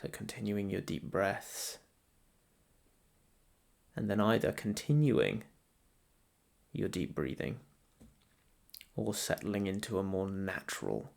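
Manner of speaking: guided meditation. Real, not acted. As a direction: ease the listener gently into stillness, leaving space to breathe.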